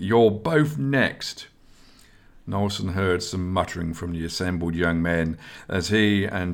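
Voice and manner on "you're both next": very slow and higher, menacing; slow menace. Acted. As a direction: drag each word out as a threat. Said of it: "added Esgar menacingly".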